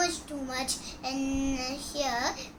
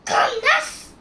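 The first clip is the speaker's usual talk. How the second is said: high call; 9 semitones higher, 6 dB louder than usual. Acted. Calling out to Calmness.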